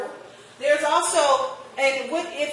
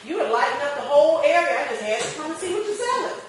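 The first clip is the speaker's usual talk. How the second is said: high, excited, drawn-in customer voice; eager customer; 5 semitones higher, 4 dB louder than usual. Retold or imitated. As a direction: gush like a customer pulled to the stall. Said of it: "And then they'll find out".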